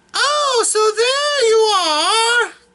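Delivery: very high, affected voice, "are" drawn out. Retelling a story, voicing the lady greeting a kneeling man, in Lady Maybelle's affected voice. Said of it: "she has that kind of a voice".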